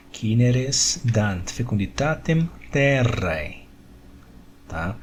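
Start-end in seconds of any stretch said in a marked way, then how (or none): 0.1-3.6 cineres dant fecunditatem terrae read slowly, each word set apart; slow model reading. Shown as a demonstration. Teacher reading the Latin sentence aloud, slowly. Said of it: "A sílaba tônica é a primeira".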